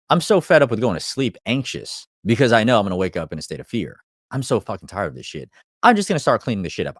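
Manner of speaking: fed up rant. Retold or imitated. A coach voicing a fed-up listener, building into a mock yell. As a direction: work yourself up from grumbling into a fed-up yell.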